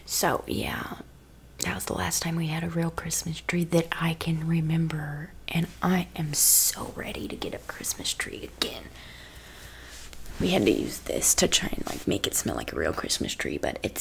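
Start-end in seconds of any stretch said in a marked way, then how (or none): 1.6-8.9 breathy ASMR whisper. Acted. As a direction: whisper close to the mic.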